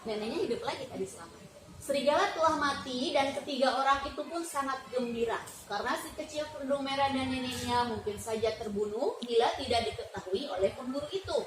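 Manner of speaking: put-on reading a fairy tale aloud to a child, steady and clear; story narration. A narrator's reading. Teacher reading Red Riding Hood to a child, storytelling voice. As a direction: tell it like a storybook for a little one.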